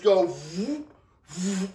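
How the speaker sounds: drawn-out vroom noise, slow; mock vroom sound. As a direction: imitate poles swaying vroom. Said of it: "like this".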